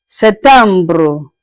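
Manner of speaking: "septembre" with a rolled French ending "bruh". Shown as a demonstration. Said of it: "Je répète".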